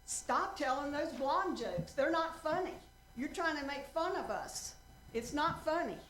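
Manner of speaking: mock-indignant heckler; mad woman. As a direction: scold the ventriloquist, playing an offended heckler. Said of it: "and she was mad".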